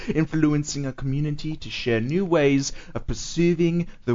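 mock-grand British accent reading a mission statement. Friend reads the mission statement to David in a British accent. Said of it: "read this in a British accent".

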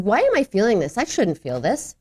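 mildly chiding oneself; dismissive. Acted. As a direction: brush your own feeling aside. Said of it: "Do you get dismissive?".

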